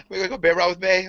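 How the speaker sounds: put-on high, sing-song Valley Girl invitation; Valley Girl accent. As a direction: imitate a ditzy Valley Girl asking along. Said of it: "Fucking Valley Girl accent".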